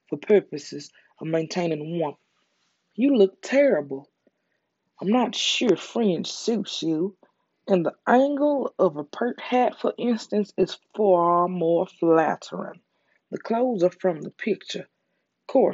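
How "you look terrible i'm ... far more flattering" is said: lightly voiced Veronica.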